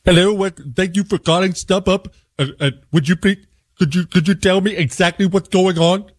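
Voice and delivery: lightly voiced phone agent. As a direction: mimic the confused support rep. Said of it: "this is how the conversation goes".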